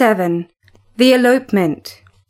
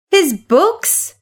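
higher, disbelieving his books; incredulous cry; 5 semitones higher than usual. A narrator's reading. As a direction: cry out, a touch scornful. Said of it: "Kathy cried".

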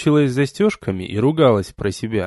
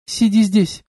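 squeaky reply; 7 semitones higher, slower than usual. Acted. Heroine squeaks at the young man while fleeing, high squeak. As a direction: squeak it out without turning round. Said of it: "пропищала".

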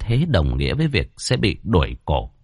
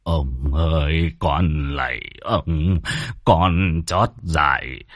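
very slow, lower, sobbing begging; wailing plea; 3 semitones lower, much slower than usual. Acted. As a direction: grovel and beg through tears. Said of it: "khóc lóc".

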